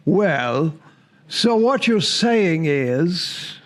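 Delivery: slow, drawn-out attempt at British; lightly put-on British accent; botched British accent. Host imitating the other Georgia commenters, accidental mock-British accent. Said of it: "I don't know why they sound British".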